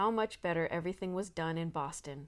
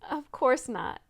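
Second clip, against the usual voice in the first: laughing; 6 semitones higher, 7 dB louder, slower than usual. A narrator's reading. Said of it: "laughed Annabel".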